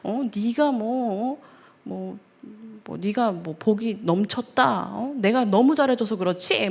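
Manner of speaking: slow, taunting husband drawing it out; mock scolding husband. Husband attacking his wife in a fight, slow sneering taunt. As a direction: needle her slowly like a sulky husband. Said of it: "남편은 맨날 같이 공격하고 더 크게 얘기하고".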